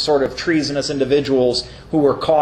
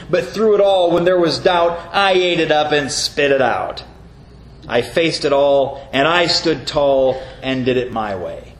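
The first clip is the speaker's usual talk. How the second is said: reciting song lyrics. Shown as a demonstration. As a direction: recite the lyrics of a song with a preacher's swing. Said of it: "a couple of verses here".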